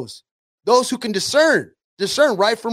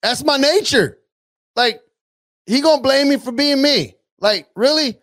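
higher, mocking devil shrugging off the blame; the devil answering the believer, pitched higher and mocking; 4 semitones higher than usual. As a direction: play the devil, amused and dismissive. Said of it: "what the devil's gonna say".

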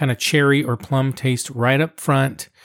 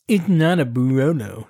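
mock snooty dad; 2 semitones lower than usual. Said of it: "He would never talk like that".

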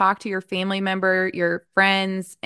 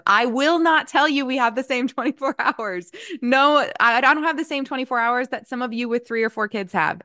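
higher-pitched, insistent quote to a team; emphatic retelling; 5 semitones higher than usual. Retold or imitated. Telling the team about unequal hours, emphatic. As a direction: retell it as a firm refusal, pitched up. Recounts firm talk to team.

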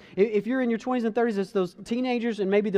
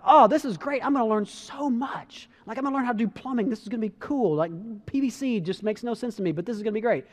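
eager; 3 semitones higher than usual. Retold or imitated. Retold eager son about plumbing.

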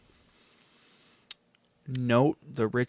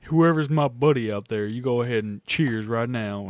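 hype toast; 4 dB louder than usual. Shown as a demonstration. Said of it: "toast to audience".

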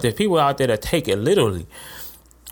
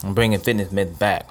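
talking around a mint in mouth; mouth full; 3 semitones lower than usual. Real, not acted. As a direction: mouth full, words slightly muffled. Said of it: "got something in my mouth actually".

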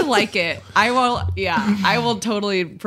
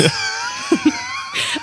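shrieking laugh; 5 dB quieter than usual. Real, not acted. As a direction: burst out in a screaming laugh. Shrieking laugh at hat idea.

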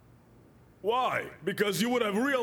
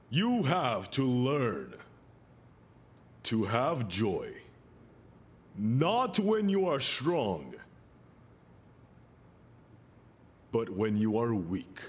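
slow, soft preaching; 9 semitones lower, 3 dB quieter, slower than usual. Acted. Slow soft sermon teaching.

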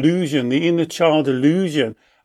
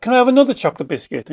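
put-on higher, rushed pleading child voice; pestering child; 7 semitones higher, much faster than usual. Child begging the parent for another biscuit, eager and high. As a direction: beg for more biscuit, fast and eager.

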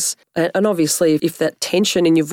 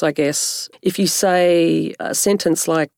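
ordinary delivery

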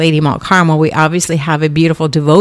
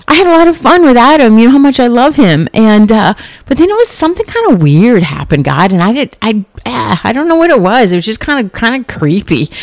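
put-on bright girlish Eve, higher and quicker; playful Eve voice; 5 semitones higher than usual. Eve telling God about her day and the serpent, higher and chatty. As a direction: play Eve chattering to God, a bit spooked at the end.

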